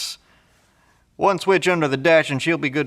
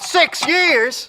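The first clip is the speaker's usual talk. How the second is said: shocked disbelief; 11 semitones higher than usual. Acted. Shocked echo of the sentence.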